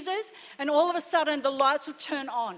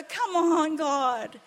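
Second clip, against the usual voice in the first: excited praise; much slower than usual. Real, not acted. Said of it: "I just go".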